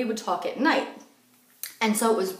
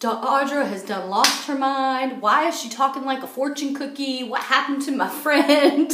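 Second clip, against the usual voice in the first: doubting disbelief; 4 semitones higher than usual. Retold or imitated. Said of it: "coming from a very doubting place".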